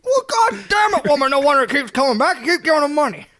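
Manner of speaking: high, exasperated mock shouting; South Park husband. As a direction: drag out the curse, then scold. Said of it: "immediately I went to South Park".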